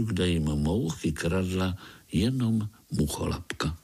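usual speaking voice

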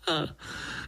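soft unvoiced laugh; breathy chuckle. A narrator's reading. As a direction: huff a quiet laugh. Gnat laughs at own tale.

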